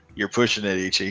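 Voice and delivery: bone-dry, absolutely flat, expressionless deadpan. In a roleplay scene, speaking to a companion in absolute deadpan. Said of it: "the absolute deadpan".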